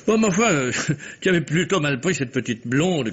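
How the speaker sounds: teasing, laughing through the words. Acted. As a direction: chuckle while bringing up the old affair. Teasing about the hidden blonde. (en riant, taquin)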